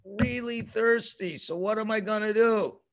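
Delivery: high, loud pleading cry. Retold or imitated. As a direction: call out to God in distress. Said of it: "So Moshe cries out to Hashem".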